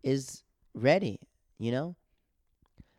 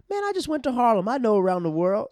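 mock indignant shout in a street argument; retold retort; 10 semitones higher, 10 dB louder than usual. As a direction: imitate a heckler yelling back, high and loud. Heckler retorts in retold quarrel.

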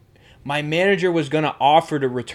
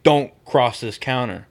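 low, slow stern order; measured, lowered voice of authority; retold stern warning; 5 semitones lower, 4 dB quieter than usual. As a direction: imitate a manager firmly warning someone off. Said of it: "told him sternly".

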